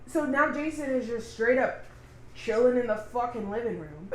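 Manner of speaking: talking through hiccups; words broken by hiccups. Real, not acted. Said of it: "No, I have hiccups".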